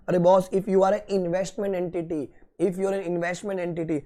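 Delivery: slow, deliberate teacher stress; slow emphasis. Shown as a demonstration. Teacher drilling students on the rule, slow and deliberate. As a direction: spell the rule out slowly. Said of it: "teacher stresses key rule".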